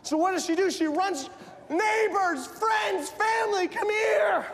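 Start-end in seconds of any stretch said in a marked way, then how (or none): 1.7-4.5 acted excited call to the neighbors. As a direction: summon everyone, pitch lifted, words spaced out. Woman calls neighbors to celebrate.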